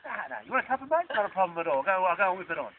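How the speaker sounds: easygoing Aussie mate. Retold or imitated. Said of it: "they go".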